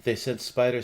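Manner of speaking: gentle spirit reassuring them; ghostly voice. Acted.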